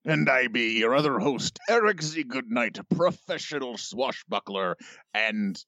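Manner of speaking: pirate voice. Acted. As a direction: swagger through it like a buccaneer. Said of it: "in the pirate voice".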